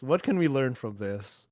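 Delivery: mock solemn hush. Real, not acted. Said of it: "mock solemn lesson question".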